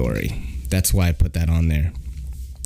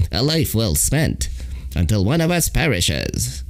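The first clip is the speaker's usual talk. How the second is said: gurgling alien voice; 5 semitones higher than usual. Shown as a demonstration. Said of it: "you could just hear them in the alien voice".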